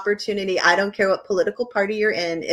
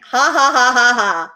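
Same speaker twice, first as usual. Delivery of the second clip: spoken-out cackle, ha by ha; hammed-up "ha ha ha"; mock cackle; 5 dB louder than usual. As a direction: read out a laugh in loud, separate syllables. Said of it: "I'm cackling".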